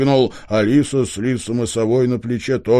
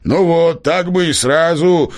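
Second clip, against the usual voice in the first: smug grin; 6 semitones higher, 4 dB louder, slower than usual. A narrator's reading. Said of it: "довольно осклабился бородач".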